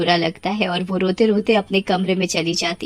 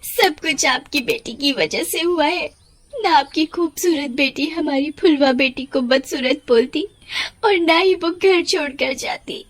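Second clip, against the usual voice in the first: bitter reproach; 5 semitones higher than usual. Acted. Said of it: "उसे बहुत कोसती है".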